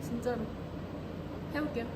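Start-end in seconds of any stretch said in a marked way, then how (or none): none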